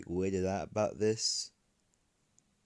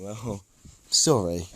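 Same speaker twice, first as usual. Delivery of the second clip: slow, loud embarrassed laugh into sorry; sheepish laugh; 11 dB louder, slower than usual. Acted. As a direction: laugh it off, caught out. Deku caught taking the materials.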